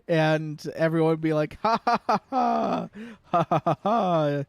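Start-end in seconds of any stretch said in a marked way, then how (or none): 1.6-4.4 high, loud fake laughing at an in-joke; mock laughter. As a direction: laugh along like a pleased fan. Imitating fans laughing at reference.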